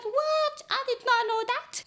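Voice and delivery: high-pitched astonished reply; mock disbelief in a high voice; retold shock. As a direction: act taken aback, pitch jumping up. Retold shock at friend's revelation.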